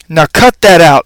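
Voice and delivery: a light squeaky scolding; a small hamster telling a dog off; mild squeaky rebuke; squeaked. Acted. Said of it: "I squeaked at him".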